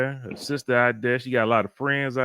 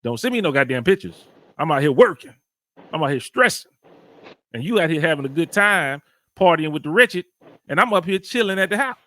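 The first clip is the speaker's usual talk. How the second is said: rising, louder complaint about being left working; growing indignant rant, higher and louder; frustrated rant; 5 semitones higher, 4 dB louder than usual. Retold or imitated. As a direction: vent like a jealous husband stuck at home. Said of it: "Part of me is like".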